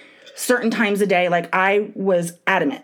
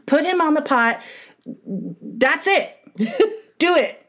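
demanding; 7 semitones higher, slower than usual. Retold or imitated. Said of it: "retelling her demand".

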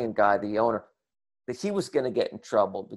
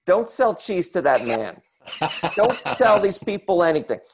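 calling out; 5 semitones higher than usual. Retold or imitated. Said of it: "I call out to the employee".

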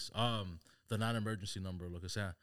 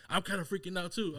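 1 imitating worried dad; 9 semitones higher, 4 dB louder than usual.

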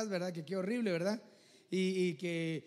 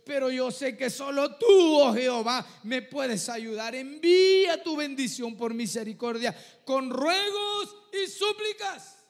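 tearful pleading prayer; 10 dB louder than usual. Acted. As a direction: plead with God through tears, humbled. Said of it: "estar llorando y humillado delante".

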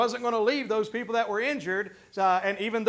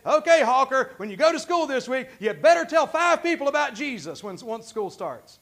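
mock pushy preacher, pitched up; 2 semitones higher, 3 dB louder than usual. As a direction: act out a preacher pushing the congregation. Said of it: "whip you and push you and say".

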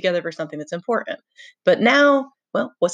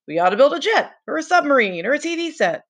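mock pompous kid; 8 semitones higher than usual. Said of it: "and someone would say".

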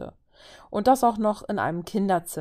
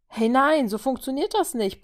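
higher, louder indignant no; two guys protest being kicked off the couch; 7 semitones higher, 5 dB louder than usual. Acted. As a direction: object sharply, like a cheated kid. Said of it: "protestierten Thor und Tony los".

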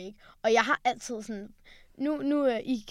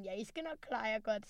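sarcastic; 11 dB quieter than usual. Retold or imitated. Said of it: "med sådan en sarkasme".

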